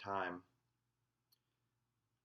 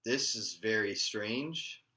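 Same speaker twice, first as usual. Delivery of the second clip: slow, louder puzzled remark; confused; 2 semitones higher, 6 dB louder, slower than usual. Retold or imitated. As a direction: say it slowly, baffled, acting out your confusion. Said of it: "And I got confused".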